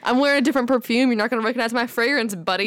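high, quick, perky service voice; bright fake-friendly clerk voice; customer service voice. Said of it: "I just go to my customer service voice".

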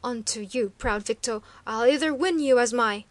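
loud, threatening snarl; savage tones. A narrator's reading. Chief savagely threatens the proud Sun Child. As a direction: menace her with every word. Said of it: "speaking in savage tones".

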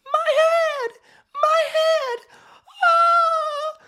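put-on high, loud anguished cries of a child; crying out in pain. Boy in the field crying out to father, high loud pained cries. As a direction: scream it like a child whose head is splitting. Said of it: "started crying out".

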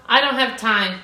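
"time" said like "tie", lips not closing on the M; "time" with an open ending, as a Brazilian student says it; student's mispronunciation. Retold or imitated. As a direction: imitate a learner dropping the M in "time". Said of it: "que você não tem isso aqui".

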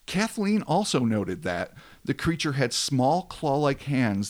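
measured storyteller read, falling at sentence ends; dramatic story narration. A narrator's reading. Host tells of a hulking thing watching them, dramatic narration. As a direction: narrate an eerie tale with weight.

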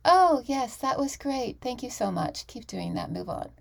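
light hammed-up gushing, fading off; a fake-nice coach, lightly played; mock easy praise. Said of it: "a coach that's just gonna say".

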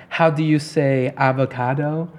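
slow mock Hispanic accent; lightly mocked fake Hispanic accent; imitated Hispanic accent. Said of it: "Hispanic accent too and everything".

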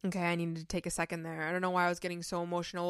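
hushed, hurried recovery from a real teary moment; emotional. Real, not acted. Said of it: "Why am I getting emotional right now?".

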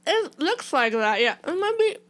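talking with a mouthful; mouth full. Real, not acted. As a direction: speak around a bite of food. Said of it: "speaking in the microphone with my mouth full".

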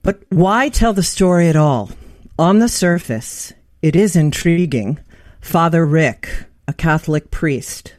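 measured, deliberate book reading; reading aloud from preface. Acted. Host reading the author's preface to listeners, measured read-aloud. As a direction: read each phrase out with space around it. I have to read something for everyone.

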